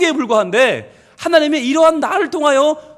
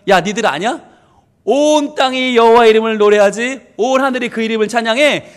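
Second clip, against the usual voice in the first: boasting; 3 dB louder than usual. Acted. David bragging to all creation about his God, playful boasting. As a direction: show off proudly, with a chuckle slipping in. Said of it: "라고 하면서 자랑하는 거예요".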